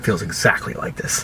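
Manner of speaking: hushed, slow, almost voiceless wife; soft quiet admission. Retold or imitated. Wife admitting to husband it feels exactly like this, hushed. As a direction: breathe it out slowly, barely voiced. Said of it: "She goes".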